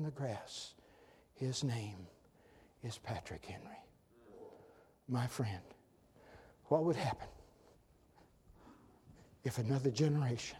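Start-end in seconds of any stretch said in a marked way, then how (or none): none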